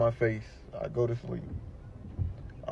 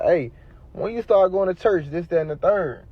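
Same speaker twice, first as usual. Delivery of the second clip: higher-pitched teasing question; joking; 6 semitones higher than usual. Retold or imitated. Caller teasing his suited homeboy about church, joking. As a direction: rib a friend playfully. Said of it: "I'm joking like".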